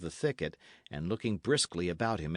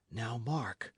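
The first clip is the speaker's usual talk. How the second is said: whispered; 5 dB quieter than usual. Acted. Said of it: "Dick whispered".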